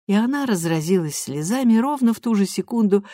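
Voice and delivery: plain reading voice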